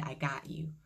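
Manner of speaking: softly imitated voice in the ear; quiet inner voice. A voice in her ear while she sat waiting, softly imitated. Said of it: "I heard something just say".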